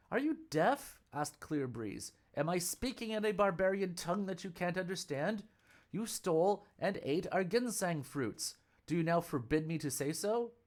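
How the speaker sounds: put-on a young Taoist scolding the monk; indignant lad.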